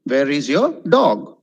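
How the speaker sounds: deliberate demo question, stress on "dog"; question intonation on DOG. Shown as a demonstration. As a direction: set "dog" apart and send it up. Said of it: "Okay, dog went up".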